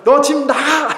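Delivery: high, loud shout of an enraged father; angry father yells at his teenage son to get out; furious father's shout. Retold or imitated. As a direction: throw him out, yelling high and loud. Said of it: "아버지와 격렬하게 이제 논쟁을 하고".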